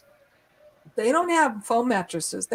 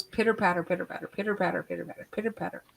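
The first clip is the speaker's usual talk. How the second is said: quick, softer and softer, like little feet running off; fading pitter patter; 5 semitones lower, 6 dB quieter, much faster than usual. Retold or imitated. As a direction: let the footsteps trail away fast and low. Imitating footsteps in the hallway.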